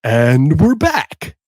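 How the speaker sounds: milk every word like a late-night DJ; overdone slow radio announcer; bigger radio host take. Shown as a demonstration. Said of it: "Or do I do it more?".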